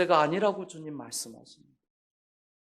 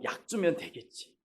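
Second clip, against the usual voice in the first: breezy, with a laugh, building louder; father imagining an easy visit, light and laughing; cheerful inner thought; 4 semitones higher, 9 dB louder than usual. Retold or imitated. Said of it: "저는 속으로".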